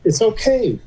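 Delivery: high-pitched retold protest that all is fine; insistent reassurance. Patient to doctor friend about first class, insistent reassurance. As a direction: talk him round, pitched well up.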